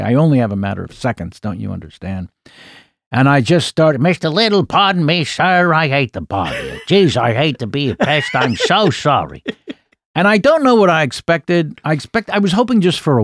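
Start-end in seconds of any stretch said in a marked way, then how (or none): 4.0-9.4 lightly voiced Lieutenant Columbo, humble and apologetic; a fan playing Columbo, pleading with Rich Little, mildly put on; Columbo impression. A hint of Columbo, sheepish and apologetic. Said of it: "Peter Falk".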